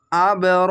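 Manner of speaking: আবরর said short with a bounced b; qalqala bounce. Shown as a demonstration. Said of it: "ধাক্কা মেরে কলকলা হবে".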